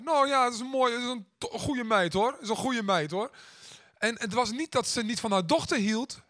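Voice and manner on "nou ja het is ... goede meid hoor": higher, awkward, restarted praise; stammering. Retold or imitated. Grandma pressed on her feelings for her daughter, stammering. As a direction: imitate flustered, clumsy praise. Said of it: "begon te stakkelen en te hakkelen".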